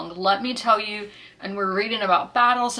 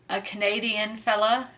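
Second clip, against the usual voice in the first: a hint of mock Canadian accent; playful Canadian accent; 2 semitones higher than usual. Vlogger introducing a Canadian crewman from the book, playful Canadian accent. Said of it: "hope y'all enjoyed the accents".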